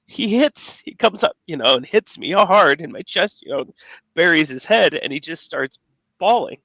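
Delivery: fighting back real tears while telling it; getting emotional. Real, not acted. Father telling the hosts about his son's loss, close to tears. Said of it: "I might get emotional. I'm probably gonna cry here".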